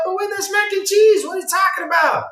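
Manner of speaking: hammed-up baffled viewer shouting; mock outraged shout. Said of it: "I'm like".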